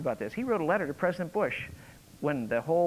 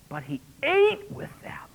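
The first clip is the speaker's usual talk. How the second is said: high, hushed whisper; 13 semitones higher than usual. Real, not acted. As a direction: breathe it out as a scandal. Stressing the shocking act.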